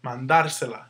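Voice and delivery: "Mandársela" said man-DAR-se-la; "Mandársela" stressed on DÁR, the endings lighter. Shown as a demonstration. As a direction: keep the weight on the second syllable of "Mandársela". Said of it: "that's where your accent goes".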